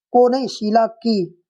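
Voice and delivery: slow, को नहीं then की stressed. Shown as a demonstration. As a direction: set को against की, leaning on की. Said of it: "को की जगह की होना चाहिए". (को नहीं, की पर ज़ोर देकर धीरे से)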